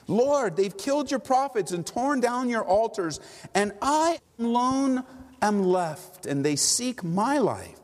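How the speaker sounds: pleading prophet. Acted. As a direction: cry out to God, alone and slow. Elijah pleads with God.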